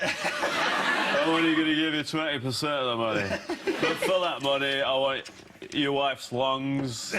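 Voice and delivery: hammed-up bad Scottish accent; badly faked Scottish voice; terrible Scottish accent. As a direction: play a TV investor in awful Scottish. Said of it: "That's the worst Scottish accent".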